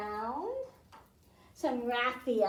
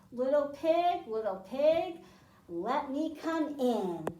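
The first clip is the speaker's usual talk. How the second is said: big bad wolf; 5 dB louder, slower than usual. Wolf calls at pig's door.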